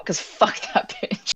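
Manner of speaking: whispered snide jab; whispered aside. Real, not acted. Snide aside about the mom.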